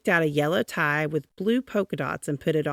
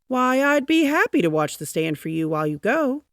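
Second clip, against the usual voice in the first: eager offer; 7 semitones higher, 6 dB louder than usual. A narrator's reading. Offering to help newsman.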